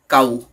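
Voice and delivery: "काऊ" said carefully, ending in an ऊ sound; careful pronunciation demo. Shown as a demonstration. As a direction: let "काऊ" end on a clear ऊ. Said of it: "जैसे ध्यान से सुनिए". ("काऊ" के अंत में साफ़ ऊ बोलें)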